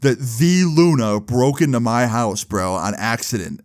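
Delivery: slow, drawn-out mock disbelief; mild freak-out, slowing and dropping off at the end; retold freak-out. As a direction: imitate an amazed fan, stretching the words out. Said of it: "this kid is freaking out".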